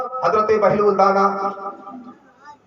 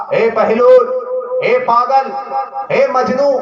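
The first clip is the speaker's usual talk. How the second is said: raised, higher call in short bursts; 4 semitones higher than usual. Acted. Harun Rashid hailing the madman Bahlool, calling out. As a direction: hail him in three separate calls. Caliph hails Bahlool with taunting names.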